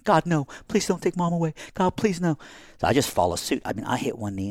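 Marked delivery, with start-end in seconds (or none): 0.1-2.4 high, desperate cry to God; retold desperate pleading. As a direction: beg God not to take her, pitched high. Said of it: "she just starts screaming".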